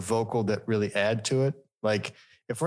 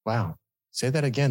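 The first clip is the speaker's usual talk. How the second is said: sultry narrator; 2 semitones higher than usual. Retold or imitated. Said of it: "in a mock sultry voice".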